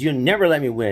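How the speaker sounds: high, sulky complaint repeated; pouty protest after losing again; whiny kid brother. Retold or imitated. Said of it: "he would get so mad".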